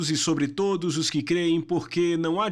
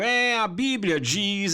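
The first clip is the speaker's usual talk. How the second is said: whiny, weepy, tearful voice; 3 semitones higher than usual. Warning listeners about people misquoting the Bible, mocking a whiny, tearful voice. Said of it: "com aquela voz chorosa dizendo".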